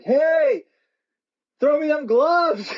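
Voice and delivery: high-pitched retold yell, slow on the last words; yelling over a railing. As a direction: call up to the player for his gloves. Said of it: "I'm yelling over the railing".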